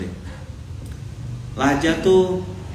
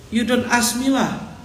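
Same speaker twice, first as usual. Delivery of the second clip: high, slow English with a Malay lilt and a final lah; Malay-accented English; 7 semitones higher, slower than usual. Retold or imitated. An ustaz imitates Malay-accented English for his listeners. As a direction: drawl it in Malay-flavoured English. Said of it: "Itu namanya aksen".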